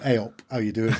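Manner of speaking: a light Yorkshire greeting for the biker; lightly voiced Yorkshire hello; Yorkshireman voice. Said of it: "we'll pretend he was a Yorkshireman".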